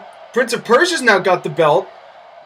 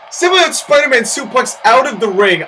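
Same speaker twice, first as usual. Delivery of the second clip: excited call; 4 semitones higher than usual. Real, not acted.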